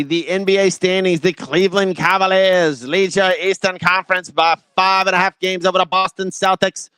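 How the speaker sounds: lightly hammed-up old-school broadcaster read. Shown as a demonstration. Host reading out the NBA standings in an old-school voice. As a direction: announce the standings like a classic TV anchor. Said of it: "That's my old school voice".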